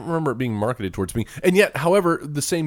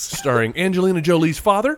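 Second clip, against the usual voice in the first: higher, announcer-style billing; mock trailer voice; 6 semitones higher than usual. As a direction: play the movie trailer narrator.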